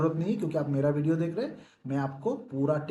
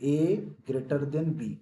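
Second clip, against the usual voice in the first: slow demo reading; much slower than usual. Shown as a demonstration. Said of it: "मैं दूसरा बार बोलता हूँ".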